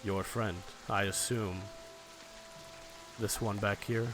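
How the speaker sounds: lightly voiced villain, measured and courteous; slight smile. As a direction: invite them along with a faint smile, pausing often. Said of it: "very slight smile, and he's like".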